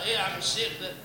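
lightly voiced annoyed congregant; mock scolding listener. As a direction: tease the imam as a nitpicker. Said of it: "لتربص به القراء". (مصلٍ يعاتب الإمام بسخرية خفيفة)

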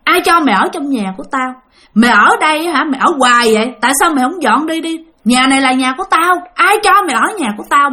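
imitating a fierce ghost scolding, pitch lifted in places; retold scolding. The ghost woman orders mother out of her house, retold scolding. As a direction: scold like an indignant landlady, moderately heated. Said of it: "bả mới chửi mẹ".

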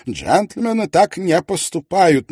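loud, high, slow outburst; blurted aloud. A narrator's reading. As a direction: let the thought burst out aloud. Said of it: "начал было он и резко замолчал".

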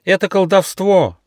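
high frightened shout; panicked cry. A narrator's reading. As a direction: cry out in terror. Goose panicking.

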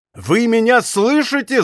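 high-pitched yelled demand. A narrator's reading. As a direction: yell it high after someone riding away. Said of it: "завопил Д'Артаньян".

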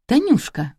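high-pitched, coaxing pet name; mock-tender call; affectionate address. A narrator's reading. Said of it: "Димон ласково произнёс".

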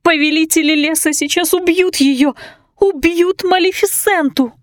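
high, whining plea; whimpering. A narrator's reading. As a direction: whimper in fear for her friend. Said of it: "захныкала Марта".

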